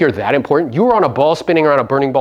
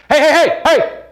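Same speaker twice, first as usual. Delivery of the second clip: higher, louder calling out; mock attention call; 10 semitones higher, 5 dB louder than usual. Imitating someone begging a crowd for attention, shouted. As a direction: wave for attention from a crowd of billions. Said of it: "going like this".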